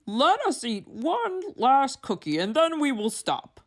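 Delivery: high, worried Toad voice, climbing at the end; Toad's voice. A narrator's reading. Toad frets over his frightened seeds, high and worried.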